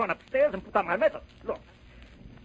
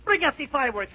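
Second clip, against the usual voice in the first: loud; 4 semitones higher, 4 dB louder than usual. Acted. Governor orders fireworks.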